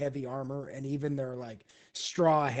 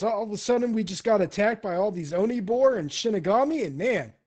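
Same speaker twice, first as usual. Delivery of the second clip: excited storytelling, loud and high; quick, rowdy recap; boisterous, good-natured mercenary; 7 semitones higher, 8 dB louder, faster than usual. Acted. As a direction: gush about the fight to your buddy.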